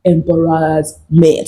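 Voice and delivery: slow, deliberate, drawn out syllable by syllable; drawn-out answer. Pretend. Host answers her own question to viewers, slow and deliberate. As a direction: let EMBARRASSMENT stretch out slowly.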